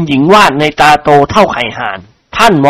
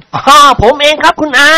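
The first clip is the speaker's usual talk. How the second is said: bold confession; 10 semitones higher than usual. Acted. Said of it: "รับสารภาพอย่างกล้าหาญ".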